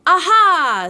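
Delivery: loud high forced Aha; a not very good Aha; shaky attempted aha. A narrator's reading. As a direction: try to sound bold but shaken. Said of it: "as well as he could after his terrifying journey".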